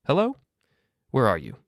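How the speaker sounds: high, loud screechy hello; a breathless, frantic mother shrieking down the phone. A narrator's reading. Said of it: "Linda's voice was screechy, breathless".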